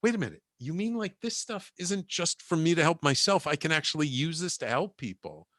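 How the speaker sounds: lightly acted aha moment; dawning realization. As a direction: let it dawn on you mid-sentence. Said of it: "light bulb goes off".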